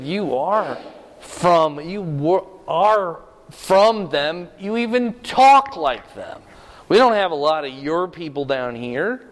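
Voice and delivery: mildly acted challenge, voice lifted; pointed accusation. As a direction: accuse him word by word.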